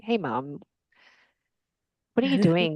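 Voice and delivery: imagine saying it with a smile; lightly affectionate, joking; smiling. Retold or imitated. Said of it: "saying it with a smile".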